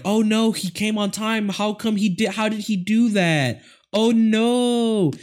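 high whiny panic; mock panic. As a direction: squeal it in fake terror. Characters panic at zombie.

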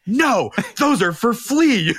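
slow, high, laughing no; laughing refusal. Retold or imitated. Host refusing the guest snacks, laughing slowly. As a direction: deny him through laughter.

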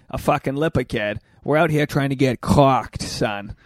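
imitating a cousin's Boston slang; light Boston accent on an acted quote. Quoting his cousin at the bar, Boston accent. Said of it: "as he calls it".

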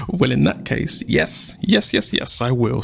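giggly, delighted acceptance; giggle, then gush in a light squeal; excited squeal. Acted. Chief's daughter accepting a proposal, squealing happily. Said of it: "squealed Bidemi".

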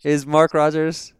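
high, slow mimicked inquiry; imitated caller's voice. Caller asking for Mark Rogers in a high put-on voice. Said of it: "was a very similar voice".

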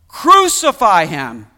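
loud, slow, falling shout; crowd's shout. A narrator's reading. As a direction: bellow each syllable as the insistent mob. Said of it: "they shouted all the more".

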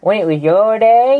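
put-on old prospector. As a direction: stretch it like an old codger. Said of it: "two old people have a conversation".

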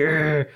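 short growl imitating rage; mock angry growl. Showing how Liam Neeson gets angry, mock growl. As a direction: growl like an enraged movie hero. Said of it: "No nada más se enoja así".

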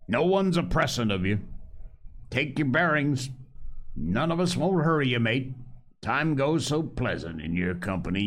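Long John Silver. Acted. Pirate cook offers the boy a choice, coaxing. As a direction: sea cook laying down terms with a grin.

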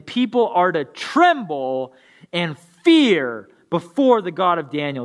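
measured, earnest Bible reading; scripture reading. Acted. Pastor reading Daniel to his congregation, earnest. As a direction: read the passage like it matters.

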